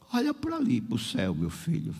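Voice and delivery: sick woman's voice dropping very low; frail little voice. Retold or imitated. Sick sister points her visitor to the sky, in a frail voice. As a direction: imitate a weak woman, sinking low as she speaks. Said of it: "com aquela vozinha dela".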